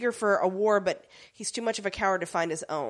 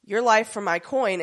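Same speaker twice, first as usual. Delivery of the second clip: Sweeney protesting; 2 semitones higher, 6 dB louder than usual. Retold or imitated. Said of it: "he's like".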